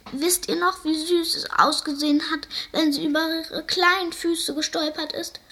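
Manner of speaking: the seal crying over the clumsy little bird; wailing seal. A narrator's reading. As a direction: wail the fond memory. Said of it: "heulte der Seehund".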